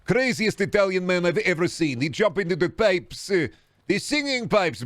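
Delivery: put-on high voice, full of wonder; excitable broken-English game character. In character telling Bourbon about Mario.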